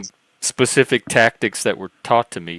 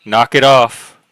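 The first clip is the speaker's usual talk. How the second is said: mock stern warning; 4 semitones higher, 6 dB louder than usual. Host jokingly scolds a guest.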